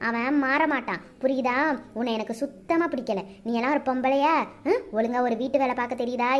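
cold and scornful, ordering her out; scolding mother-in-law. Acted.

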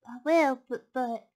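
hesitant piglet. Acted. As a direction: stall as the piglet. Piglet stalls the fox.

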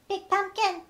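small and squeaky; squeaky bat. Acted. Little bat arrives.

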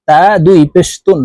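"তা দুই পেশ তুন" ending on a clear n; tanween with nun. Shown as a demonstration. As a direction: spell it quickly, closing "তুন" on a nun. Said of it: "নুন যুক্ত ভাবে পড়তে হবে". ("তুন" নুন যুক্ত ভাবে উচ্চারণ)

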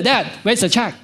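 lightly acted kid asking Dad directly; casual kid. Child asking father for money, casually entitled. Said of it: "No, they come and say".

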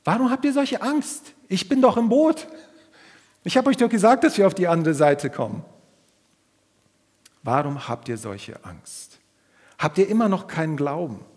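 high, loud exasperated scolding; Jesus scolding the fearful disciples loudly; loud rebuke. Retold or imitated. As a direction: shake them out of their fear.

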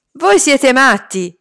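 loud alarmed shout, slow. Acted. Karim yelling at the boys sneaking out, loud. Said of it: "gridò Karim".

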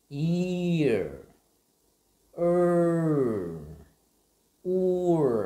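each sound loud, high, then falling; rise-fall sounds. Shown as a demonstration. Teacher showing the pitch swoop on r sounds. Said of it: "lên giọng và xuống giọng một chút".

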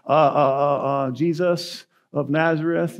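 slow, halting uh uh uh before the name; a scared soldier stammering out the answer; timid stammer. Retold or imitated. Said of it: "imagine they're a little more timid this time".

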